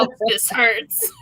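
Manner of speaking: mock yelling. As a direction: yell it like a kid. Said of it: "for me to be going".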